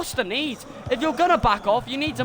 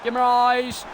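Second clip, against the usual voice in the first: higher and louder, building to a roar; goal celebration shout; 6 semitones higher, 5 dB louder, slower than usual. Real, not acted. Fan calling the equaliser live, excited shouting. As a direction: scream the goal as it goes in.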